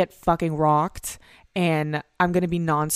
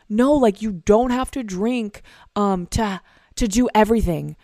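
wholesome friend voice; 4 semitones higher, 4 dB louder than usual. Acted. Voicing sober friends reassuring.

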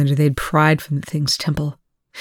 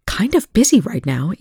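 snapped; 4 semitones higher than usual. Acted. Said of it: "Eli snapped".

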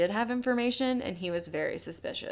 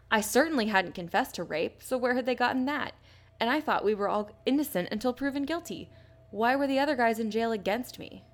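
mock indignation; 4 semitones higher than usual. Podcaster scornfully quoting the jailed killer's complaint, mock-indignant. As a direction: quote him in higher-pitched, aggrieved protest.

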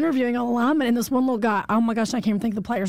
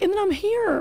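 retold amazement; 12 semitones higher than usual. Retold young player marvelling.

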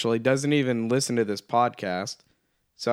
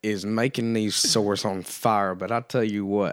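chewing tobacco. Pretend. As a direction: mumble round a wad of chaw. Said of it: "y'all been dipping chaw?".

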